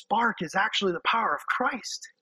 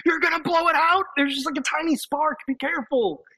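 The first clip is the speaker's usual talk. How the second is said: higher, anxious caution; mock nervous warning; 8 semitones higher than usual. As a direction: fret that the spark will go out. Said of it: "I'm like".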